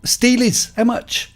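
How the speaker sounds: put-on squeaky Liverpool kid insisting; Scouse lad pressing the question, pitched well up; Scouse accent. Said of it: "I'm gonna try the accent".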